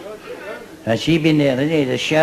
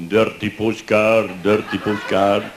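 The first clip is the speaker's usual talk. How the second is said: street hawker call; 4 semitones lower, slower than usual. Retold or imitated. Wall hawker calling to soldier.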